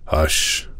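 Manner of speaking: whispered hush. A narrator's reading. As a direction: hush her softly. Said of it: "said the Rajah".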